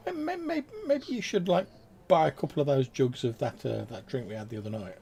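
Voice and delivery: nervous high-pitched stammer; Lan's voice. Acted. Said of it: "Lan sort of says".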